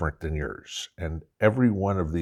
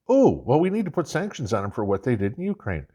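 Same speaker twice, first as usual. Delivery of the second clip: mock indignant voice; 5 semitones higher, faster than usual. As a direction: play it smug and self-righteous. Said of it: "acted mock dialogue, sanctions reply".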